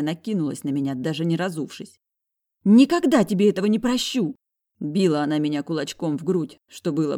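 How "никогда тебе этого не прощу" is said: put-on high, loud furious girl's cry; high loud outraged girl. A narrator's reading. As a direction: yell it while hitting him. Sister attacks him.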